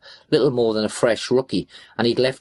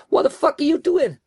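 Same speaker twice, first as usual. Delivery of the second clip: high-pitched, outraged yell. A narrator's reading. Driver yelling over his shoulder at his accomplice, yelling. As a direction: yell in alarm at someone behind you. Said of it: "I yelled over my shoulder at Mickey".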